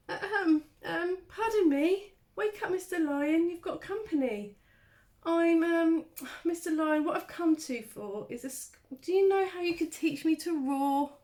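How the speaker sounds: tiny mouse nervously waking a lion; nervous squeaky mouse. Acted.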